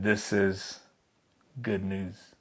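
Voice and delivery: soft and low, half to oneself; a whispered-feeling realization of good news; hushed awe. Retold or imitated. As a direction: breathe it out in quiet wonder. Adam and Eve hear the promise.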